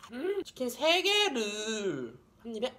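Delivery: chewing while talking; words muffled by food; mouth full of chicken. Real, not acted.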